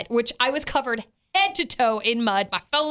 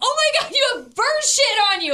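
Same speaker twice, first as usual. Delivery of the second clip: acted-out very high, shrill yell; 12 semitones higher, 3 dB louder than usual. A mom recounts calling out on the sidewalk, retelling her own yell. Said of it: "as I'm yelling".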